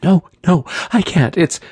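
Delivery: very high, frightened refusal; shrill panic. A narrator's reading. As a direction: protest in a shrill, frantic voice. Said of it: "came the shrill voice".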